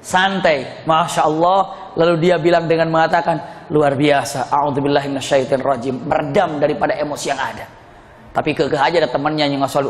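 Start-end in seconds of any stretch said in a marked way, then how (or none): 3.7-6.0 low, composed murmur of self-restraint; lightly acted calm, reciting to steady himself; calm, relaxed. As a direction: imitate someone keeping his temper down. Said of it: "kalem. Santai".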